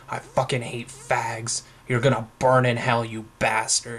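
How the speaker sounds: mock furious shout, pointing at the kid; retold angry tirade. Retold bigot's furious rant at him.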